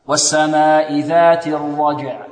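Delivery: slow chant, "الرجع" with bounced j and sounded ayn; clear final consonants. Shown as a demonstration. Teacher showing students to make the letters clear, careful recitation. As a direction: separate both closing consonants of "الرجع". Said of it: "ويبين الحروف".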